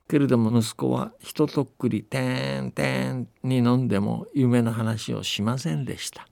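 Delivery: put-on steady, unhurried old-tale narration with light dialect voices for the villagers; folktale storytelling. A narrator's reading. Telling the host a New Year folktale from Akita, calm storytelling voice. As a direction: tell it like a grandparent spinning an old story.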